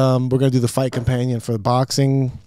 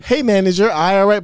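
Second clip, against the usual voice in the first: loud, higher-pitched oblivious interruption; Vinny; 7 semitones higher, 6 dB louder than usual. Retold or imitated. Guest derails the host's point mid-sentence, loud mock interruption. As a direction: butt in loudly with sudden concern. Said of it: "and Vinny goes".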